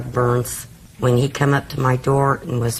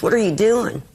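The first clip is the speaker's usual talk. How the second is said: higher-pitched, urgent question; alarmed retold cry; 7 semitones higher than usual. Mother acting out son during a fight, alarmed. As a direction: mimic someone protesting, pitch jumping up.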